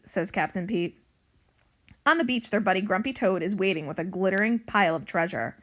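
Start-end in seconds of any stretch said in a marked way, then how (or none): 2.1-5.6 animated storybook narration, louder than chat; story reading to children. A narrator's reading. Librarian reading a pirate cat book to young pupils, animated narration. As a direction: read it out clearly for young listeners.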